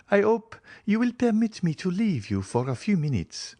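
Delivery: high-pitched, polite hostess; Julie excusing herself. A narrator's reading. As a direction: excuse yourself in a high, feminine voice.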